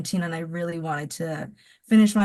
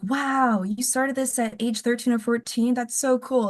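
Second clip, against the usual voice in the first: higher, bright admiring fan gushing; impressed gushing; 4 semitones higher than usual. Retold or imitated. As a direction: gush like an impressed reader. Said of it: "people who I think liked the book will be like".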